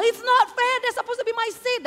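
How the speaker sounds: high, loud furious protest; angry protest. Retold or imitated. Rude woman protesting that the prize seat was hers, angry. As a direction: cry out that it's unfair. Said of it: "Dan dia marah-marah".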